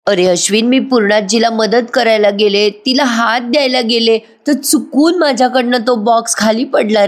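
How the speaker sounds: milk it, a staged tearful excuse; fake crying. Priya excuses herself to Ashwin with fake tears. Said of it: "मुद्दाम आपलं रडायचं नाटक करते".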